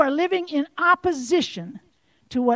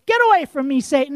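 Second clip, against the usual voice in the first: louder commanding rebuke of Satan; firm rebuke; 5 dB louder, faster than usual. Acted. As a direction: order Satan away with authority. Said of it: "Jesus said to Satan".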